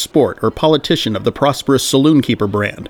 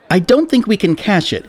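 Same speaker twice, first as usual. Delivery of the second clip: put-on higher, hesitant young clerk voice; unsure shop clerk, higher pitch; 8 semitones higher than usual. A narrator's reading. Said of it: "he hesitatingly explained".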